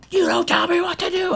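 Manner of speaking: high, loud imitated yell; retold scream. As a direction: mimic the shirtless guy's shout. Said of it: "I hear screaming".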